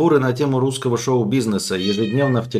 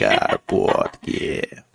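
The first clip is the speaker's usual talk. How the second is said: low growl; much slower than usual. Pretend.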